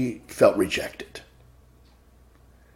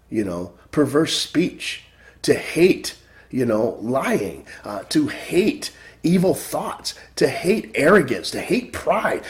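rising and falling sermon cadence, punching key words; preaching; 2 semitones higher than usual. Acted. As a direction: exhort the flock to fear the Lord. Preaches to congregation.

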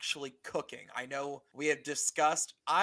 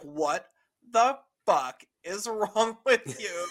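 mock outrage, word by word; imitated appalled friend; 3 semitones higher, 4 dB louder, slower than usual. Imagining the math teacher friend's reaction, mock appalled. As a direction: slowly hammer out a lightly acted scolding. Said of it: "She's gonna be like".

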